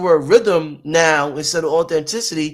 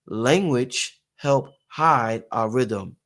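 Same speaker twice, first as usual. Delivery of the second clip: slow emphasis; 3 semitones lower, 3 dB quieter, much slower than usual. Shown as a demonstration. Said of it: "let me say this again".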